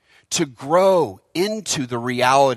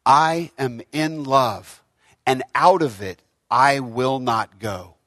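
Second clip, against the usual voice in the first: slow and serene; 3 semitones lower, slower than usual. Shown as a demonstration. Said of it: "Read with me".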